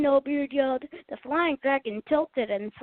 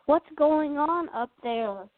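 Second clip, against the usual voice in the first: calling voice; 3 semitones higher than usual. Acted. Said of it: "a voice called from the deep".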